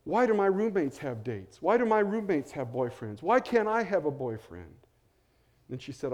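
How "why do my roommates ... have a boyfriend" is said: higher and louder, a lonely plea; complaining to God. Retold or imitated. Lonely young woman complaining to God, louder and pleading. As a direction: let the why lines climb in frustration. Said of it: "I sort of began to complain to God".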